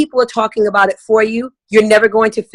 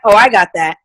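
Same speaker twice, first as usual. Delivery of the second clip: unenthused guest; 3 semitones lower than usual. Retold or imitated. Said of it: "So that person that's like".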